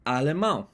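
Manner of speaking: "alemão" said as a Portuguese word; Portuguese pronunciation. Shown as a demonstration.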